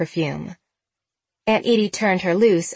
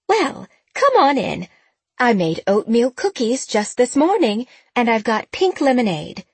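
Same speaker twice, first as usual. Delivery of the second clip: put-on old lady voice; 5 semitones higher than usual. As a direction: welcome them in like a kindly old aunt. Voices Aunt Edie.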